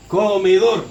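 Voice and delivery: "Comedor" with firm stress on the last syllable, DOR; fuerza en DOR. Shown as a demonstration. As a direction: lean hard on the "dor" of "Comedor". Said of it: "En dor, en la última sílaba". ("Comedor" con la mayor fuerza de voz en "dor")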